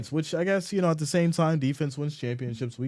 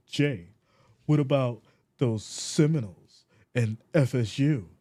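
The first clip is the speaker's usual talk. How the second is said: a hint of put-on commenter voice; mocking fan imitation; 2 semitones lower than usual. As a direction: needle him like a teasing fan. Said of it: "That's how you sound when you talk about it".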